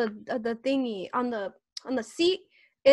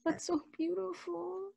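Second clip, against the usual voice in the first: holding back tears; 5 semitones higher, 3 dB quieter than usual. Real, not acted. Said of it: "I'm trying not to cry".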